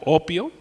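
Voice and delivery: "opio" stressed on its first O. Shown as a demonstration. Preacher giving congregation the Greek word, "opio" stressed on first O. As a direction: lean on the opening O of "opio". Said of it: "opio con acento en la O".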